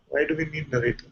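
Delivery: normal talking voice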